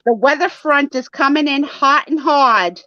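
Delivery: mock weather forecaster read; hammed-up TV weather report, drawn out; newscaster voice. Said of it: "And I couldn't say".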